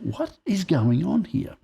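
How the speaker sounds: high, drawn-out disbelief; imitating a stunned reaction; bewildered. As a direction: stretch it out slowly, pitched high.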